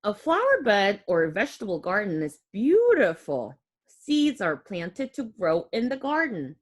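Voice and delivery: put-on clear, gentle read-aloud for kids; reading to children. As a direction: read the book aloud to little ones. Reads picture book to children.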